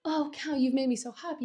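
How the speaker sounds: high-pitched, gushing gratitude; dolgelukkig. Retold or imitated. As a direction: act out overjoyed thanks. Valentine gushes thanks to Count.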